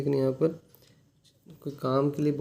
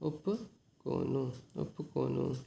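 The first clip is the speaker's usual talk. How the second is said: slow demo; 7 dB quieter, much slower than usual. Shown as a demonstration. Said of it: "no लगा देते हैं बस".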